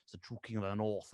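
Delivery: lightly voiced stern-king character; a hint of the Onion Knight guy; Stannis Baratheon. Naming the true king, lightly put-on character voice. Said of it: "anything that's like Stannis Baratheon".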